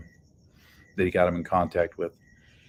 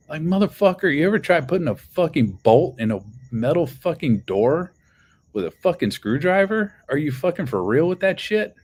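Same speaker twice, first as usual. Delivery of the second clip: incredulous outburst; 7 semitones higher than usual. Real, not acted. Ranting to viewers about the screwdriver claim, outraged and high. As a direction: pitch it way up in outraged disbelief.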